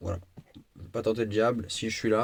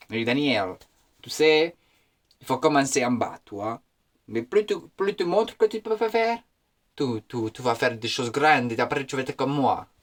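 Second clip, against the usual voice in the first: lightly voiced Italian accent; imitated Italian chef. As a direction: coach the rookie with a slight mock Italian accent. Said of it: "tu vois, il m'a dit".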